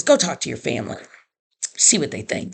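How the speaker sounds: low, understated, matter-of-fact advice; imitating a kind woman. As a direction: lightly voice a kind counselor, pitched a bit down. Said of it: "That's how she talks. She's very kind".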